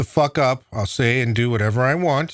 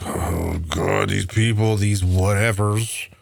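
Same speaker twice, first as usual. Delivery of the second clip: mocking Pelosi; 4 semitones lower, slower than usual. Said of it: "She always is like".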